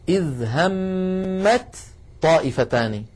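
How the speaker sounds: "همت طائفتان" very slowly, the ta melting into the ta; assimilated example. Shown as a demonstration. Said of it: "كذلك المتجانسين".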